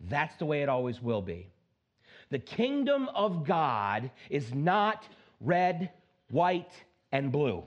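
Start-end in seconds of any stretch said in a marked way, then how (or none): 2.3-7.6 slow, weighty, every word landed; slow emphatic statement. Real, not acted. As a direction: lay it down slowly. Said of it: "Do I need to say that again?".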